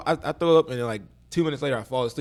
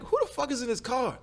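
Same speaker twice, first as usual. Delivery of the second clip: confused yell; 5 semitones higher than usual. Retold or imitated. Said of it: "I'm like".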